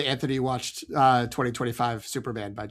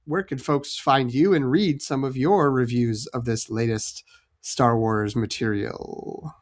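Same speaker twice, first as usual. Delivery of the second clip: slow, drawn-out ominous delivery; creepy, ominous; slower than usual. Real, not acted. Host asking Jen for her reviews, creepy and ominous. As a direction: ask it slowly, oddly creepy, sinking at the end. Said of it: "that was really creepy and ominous".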